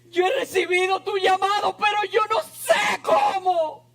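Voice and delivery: anguished prayer. Acted. Prayer to the Lord, crying out.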